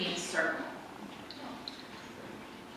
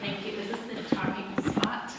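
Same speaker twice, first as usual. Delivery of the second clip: whispering. Real, not acted. Asking quietly before speaking.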